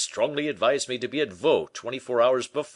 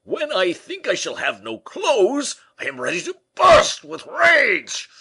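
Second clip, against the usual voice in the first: much higher, louder furious cry; Porthos raging; 9 dB louder than usual. A narrator's reading. Porthos furious about having no clothes, crying out loudly. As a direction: burst with rage, nearly shouting. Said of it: "cried Porthos, stamping on the floor".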